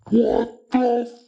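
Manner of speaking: slow, strained, hammed-up scream; mock scream. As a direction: imitate her screaming, every word stretched out. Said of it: "and screamed".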